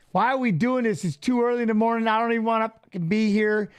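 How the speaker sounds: imitating a pissed-off morning whine; retold griping. Retelling his early practice complaints, griping. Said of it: "bitching and complaining".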